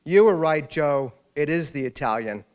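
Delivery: loud excited yell across a room; triumphant mock scream; retold scream. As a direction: shout it across the restaurant to her husband. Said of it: "screamed across the restaurant again".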